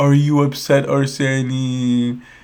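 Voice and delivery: put-on very slow baby talk, one word stretched out. Speaker retells a man repeatedly questioning someone who ignored him, in baby voice. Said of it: "He used baby voice and repeatedly asked him".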